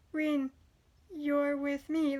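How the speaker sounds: slow, flat, lightly mocking monotone; mock the lifeless voice actor, dragging it out; monotone robot imitation. Reviewer mocking a dull voice actor's line, in slow monotone. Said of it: "I can't even do it without sounding like a robot".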